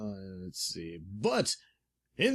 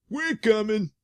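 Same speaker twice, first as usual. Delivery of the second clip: eager crook voice; 9 semitones higher, 5 dB louder than usual. Acted. Crooks' line.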